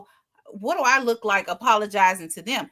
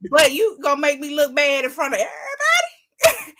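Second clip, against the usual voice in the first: mock indignant boss; 3 semitones higher than usual.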